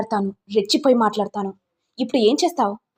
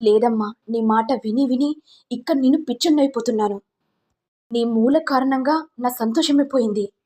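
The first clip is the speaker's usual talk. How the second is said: heated reproach, mildly raised voice; reproachful; 3 semitones higher, 3 dB louder than usual. Acted. Son blaming his mother for his unhappiness, mildly heated reproach. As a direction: blame her, then lay down the decision.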